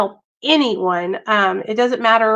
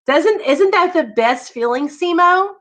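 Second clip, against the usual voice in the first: higher, odd little-creature voice; Yoda voice; 7 semitones higher than usual. Acted. Praising a viewer on the stream in a high Yoda voice. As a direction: squeeze it up into a wise little alien. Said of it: "Yoda voice".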